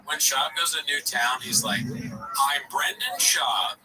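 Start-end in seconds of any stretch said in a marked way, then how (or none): 1.8-3.8 slow, lightly voiced Mulaney; a hint of John Mulaney's delivery; John Mulaney impression. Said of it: "Mulaney Schaub".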